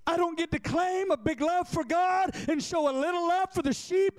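high, sustained, drawn-out preaching cadence; impassioned preaching. Real, not acted. Pastor preaching to himself about loving the sheep, impassioned. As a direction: preach it high, holding the key words long.

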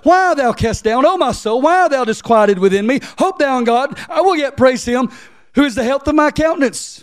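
preacher reading verse eleven, rising; preaching scripture. Acted. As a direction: lift the verse like a sermon climax. Reads verse eleven higher.

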